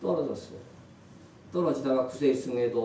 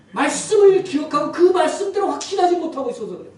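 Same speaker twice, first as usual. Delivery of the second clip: loud, raised sermon delivery; full-force preaching; 12 semitones higher, 12 dB louder than usual. Real, not acted. Pastor urging the congregation to fight by faith, full-force preaching. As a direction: preach it out hard, pitch held high.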